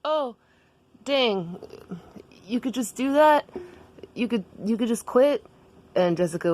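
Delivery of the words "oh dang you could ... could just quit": high, amazed character voice; Daniel. Acted. Daniel learns that quitting is possible, high and amazed. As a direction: wonder at it in a raised voice. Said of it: "And Daniel was like".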